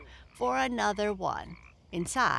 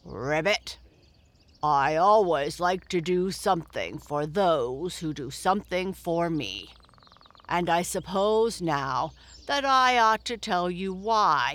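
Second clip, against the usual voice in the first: put-on old frog voice; 4 dB louder than usual. Grandfather Frog speaks at length.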